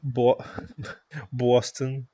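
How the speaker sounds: Boston with a New York aw vowel; a touch of New York accent. Shown as a demonstration. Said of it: "only thing I remember of, like, New York accent".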